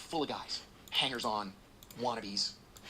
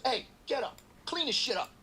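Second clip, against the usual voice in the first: loud, high barked order; boss yelling; 11 semitones higher, 5 dB louder than usual. Retold or imitated. Boss barking at the man in the top bunk, loud order. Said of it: "and he goes".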